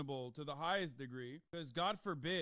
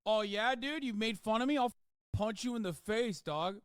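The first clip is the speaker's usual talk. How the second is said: mock caveman; 3 semitones higher, 4 dB louder than usual. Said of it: "what are you, a caveman?".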